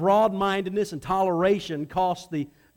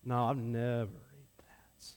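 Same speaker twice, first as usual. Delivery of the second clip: hushed, horrified whisper; whispered refusal; 9 semitones lower, 10 dB quieter than usual. Acted. Peter whispering his refusal to the Lord. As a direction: whisper it as if appalled.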